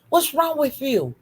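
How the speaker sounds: "with" ending on a clear F instead of TH; F sound in "with". Real, not acted. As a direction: say "with" as "wif". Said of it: "put them F's on that with".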